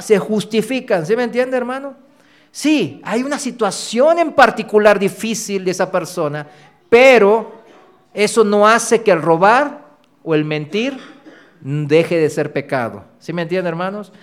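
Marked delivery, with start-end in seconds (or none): none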